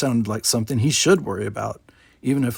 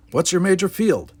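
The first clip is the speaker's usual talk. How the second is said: put-on grumpy old man; 7 semitones higher than usual.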